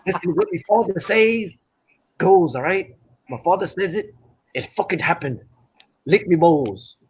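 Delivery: mock Irish traveller accent; cocky boxer putting on Irish-tinged bravado; Fury. Friend quotes the boxer about his father, mock Irish accent. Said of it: "how was my accent".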